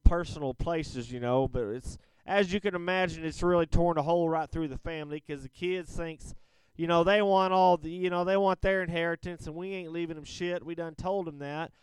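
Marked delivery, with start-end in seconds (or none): 2.3-11.7 put-on folksy Southern accent. Caller telling radio host about his kids, in a Southern accent. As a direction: let a Southern accent kick in. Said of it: "kicking in a Southern accent there".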